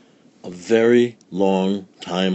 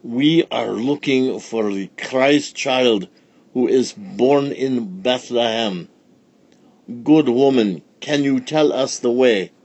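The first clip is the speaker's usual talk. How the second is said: put-on wise old sage; 4 semitones higher, 4 dB louder than usual. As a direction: ask with grave courtesy. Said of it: "said one of the wise men".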